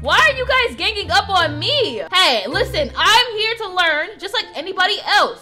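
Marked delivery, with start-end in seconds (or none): 0.0-2.0 taken aback. Pretend. Startled by classmates' sudden insults.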